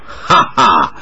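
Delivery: put-on halting, slowed foreign-accented Mandarin; a touch of a foreign monk's awkward Chinese; stiff foreign Chinese. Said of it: "用生硬的汉语说道".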